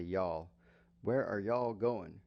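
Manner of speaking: slow Southern "Y'all. Where are y'all going?" with a long y'all; Southern accent. Shown as a demonstration. Teacher showing how Southerners ask where you are headed, Southern accent. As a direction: lean into a Southern y'all, slowly. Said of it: "But in the South, they say".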